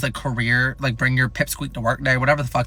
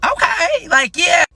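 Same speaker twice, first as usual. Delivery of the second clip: okay, way up high and rising; excited okay; 14 semitones higher, 3 dB louder, slower than usual. Retold or imitated. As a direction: gush the okay like it's great news. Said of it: "Hell yeah".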